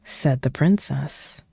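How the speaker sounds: lively read-aloud, dropping to whispers at times; storybook reading. Acted. Streamer reading the Shrek book to chat, playful storytelling. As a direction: read the rhymes like a bedtime story.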